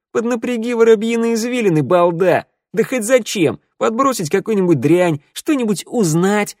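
high, loud, scornful rant; exasperated scolding. A narrator's reading. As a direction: berate them as if they are dim. Shnyryala insults Sanda, exasperated. (раздражённо, презрительно отчитывая)

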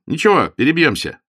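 high, loud, cheerful shrug; good sport taking a loss; hearty. A narrator's reading. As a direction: reassure him with cordial bounce. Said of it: "сердечно заметил он".

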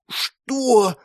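high outraged cry; outraged gasp. A narrator's reading. Sister outraged at being called old, gasping. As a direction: choke on the insult. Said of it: "выдохнула Света".

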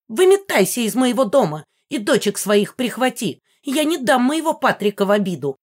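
put-on an old ghost screaming to throw someone out; old woman voice. A narrator's reading. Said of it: "послышался старческий голос".

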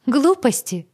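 high, loud scoffing "Глупости!"; smirking dismissal. Acted. Heroine to Agata, loud scoffing dismissal. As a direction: scoff it away. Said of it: "усмехнулась я".

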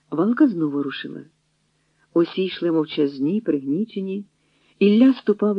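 usual speaking voice

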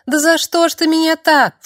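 put-on high frightened girl pleading with Donatos; frightened plea. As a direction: cry out why, stung and scared.

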